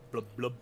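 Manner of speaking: mock fish bubbling; fish blub blub. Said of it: "our man in the field".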